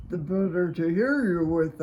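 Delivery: a hint of a wolf posing as grandma; wolf playing Granny. A narrator's reading. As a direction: bluff it as sweet old Granny.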